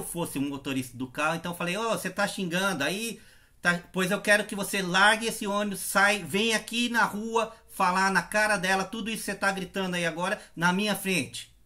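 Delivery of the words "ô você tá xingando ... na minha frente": loud, raised voice telling off the bus driver; angry road-rage yell. Retold or imitated. Roadside bystander yelling at the bus driver, angry. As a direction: chew the driver out, not delicately. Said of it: "Mas é claro que não delicadamente".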